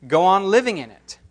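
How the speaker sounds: measured, solemn reading of scripture. Acted. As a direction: read the passage with reverent weight. Formal scripture reading aloud.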